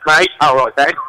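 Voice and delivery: light mock English greeting; British accent. Shown as a demonstration. Guest showing off to the hosts, in a British accent. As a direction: put on a casual London accent. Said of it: "try to talk like I'm from, uh, I'm from England".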